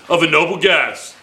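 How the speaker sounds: lightly imitated radio announcer; the speaker's radio voice. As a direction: say it with a touch of radio presenter. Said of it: "That's Andrew's radio voice".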